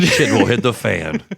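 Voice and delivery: movie trailer voice. Acted. Trailer voice continues.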